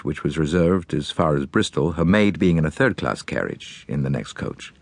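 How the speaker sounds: American magnate. Acted. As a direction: play a grieving, determined businessman giving orders. Voices Halliday's account.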